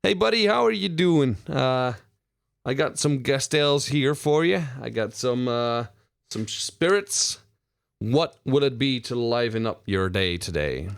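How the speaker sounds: warm barkeep pitching his drinks; bartender voice. Acted. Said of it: "Bartender says".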